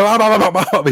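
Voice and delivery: imitating a brother jolted awake, high and loud; scared, startled. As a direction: panicky mock yelps of someone caught in bed. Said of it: "he was scared".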